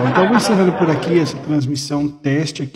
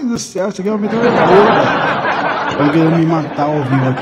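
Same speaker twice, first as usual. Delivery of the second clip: laughing; 3 semitones higher, 6 dB louder than usual. Real, not acted. Startled by machine-gun sound.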